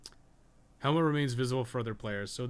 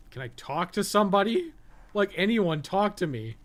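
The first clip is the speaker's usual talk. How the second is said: higher and louder, begging for anyone to answer; exasperated calling out; 8 semitones higher, 6 dB louder than usual. Real, not acted. Streamer begging anyone in the game to talk, loud exasperated call. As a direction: call out loudly into the empty room. Pleading for any game character.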